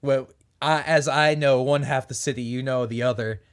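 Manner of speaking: lightly southern city vagrant; southern accent. Acted. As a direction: keep a faint southern lilt. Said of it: "still talking in this accent".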